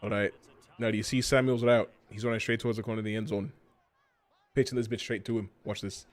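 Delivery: put-on Scottish accent. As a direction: play it as a Scotsman. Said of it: "Bald and Scottish".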